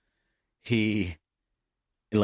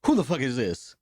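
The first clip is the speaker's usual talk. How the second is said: mock angry manager, higher and rising in pitch; 9 semitones higher, 5 dB louder than usual. Manager yelling at the prank caller, mock outrage pitched higher. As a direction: play the outraged manager getting higher each line. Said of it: "the manager's like".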